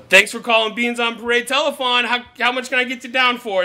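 lightly put-on performer voice, pushed up; Deadpool stage voice. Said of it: "I'll do the voice".

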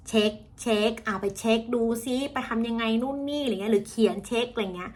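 "เช็ค" said the Thai way with a longer ช; Thai-style CH. Shown as a demonstration. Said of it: "ภาษาไทยออกเสียงคำนี้ว่า". (ออกเสียง "เช็ค" แบบไทย)

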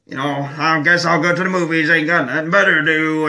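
lampoon a bored country guy; half-hearted Southern hick impression; mock redneck voice. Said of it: "I can't do as good as".

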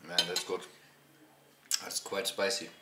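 talking with food in mouth; savoring while speaking; chewing. Real, not acted. Seen 2: Bite taken just before; mouth working on food during speech.

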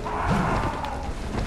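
real high-pitched yelp of alarm; startled outcry. Real, not acted. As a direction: blurt it out as if ambushed. Startled by an attack in game.

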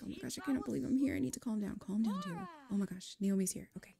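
lightly acted panic, talking yourself down; freaking out. Nervous applicant calming herself before the interview, mildly freaking out. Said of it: "She's freaking out".

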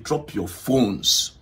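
drawn-out mock police command; imitated loud order. Officer ordering everyone to drop phones, slow emphatic imitation. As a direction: stretch each word like an officer making sure all hear. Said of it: "He made sure he made it loud".

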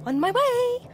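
high-pitched little Mole voice; high, eager storybook animal. A narrator's reading. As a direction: answer the call brightly, pitched well up. Mole answers urgent call in story.

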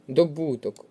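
Добуток stressed on the middle бу. Shown as a demonstration. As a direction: lean on the у of Добуток. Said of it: "слово наголошується на".

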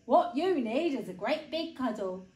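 big storybook bear voice; consoling bear. A narrator's reading. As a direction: comfort a little one as a big bear. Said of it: "said the bear".

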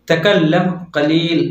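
slow, careful तकल्लम कलील with a doubled l; teacher modelling Arabic; careful Arabic phrase. Shown as a demonstration. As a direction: say तकल्लम कलील slowly, each syllable clear. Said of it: "तो उसको अरबी में बोलेंगे".

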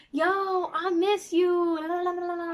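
hammed-up missing-you mom; imitating her mom. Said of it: "My mama be on some".

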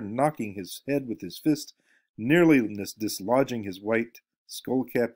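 reading a novel aloud to the class; story reading. Acted. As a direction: lecturer reading a story passage to students, lively reading voice. Reads novel passage aloud.

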